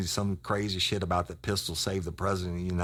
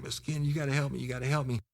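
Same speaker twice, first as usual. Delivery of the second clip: much higher, pleading mock sob voice; imitating a crying kid; 10 semitones higher, much faster than usual. Informant begging the cop for help, high mock crying. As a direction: beg like a scared kid, half-hammed. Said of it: "He was cr-, crying".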